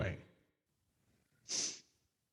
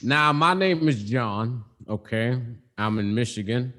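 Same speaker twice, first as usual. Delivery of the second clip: odd put-on voice; 3 semitones lower than usual. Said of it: "I don't know why I'm talking like this".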